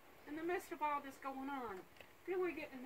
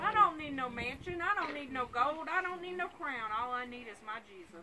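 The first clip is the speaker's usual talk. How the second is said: preaching at full force; 3 semitones higher, 6 dB louder than usual. Acted. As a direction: preach it out to the church. Eulogy rising into preaching.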